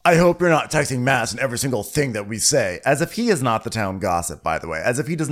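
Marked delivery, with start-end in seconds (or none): 0.0-2.8 imitated condescending remark, a bit raised; lightly mocking condescension. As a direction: talk down to her in a retold quote. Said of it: "so condescendingly".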